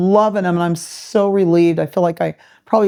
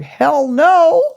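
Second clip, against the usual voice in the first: emphatic refusal; 9 semitones higher, 5 dB louder than usual. Retold or imitated. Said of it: "And I'm like".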